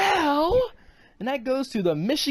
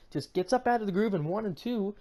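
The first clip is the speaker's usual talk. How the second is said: ordinary delivery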